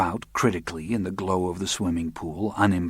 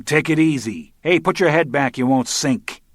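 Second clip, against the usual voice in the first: louder, higher shout to a man in the pool; yelling; 7 semitones higher, 5 dB louder than usual. A narrator's reading. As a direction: call out hard to calm a drowning man. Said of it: "He yelled at him".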